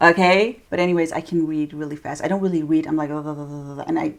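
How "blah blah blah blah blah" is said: mumbled reading. Shown as a demonstration. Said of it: "I have to make the sound to read".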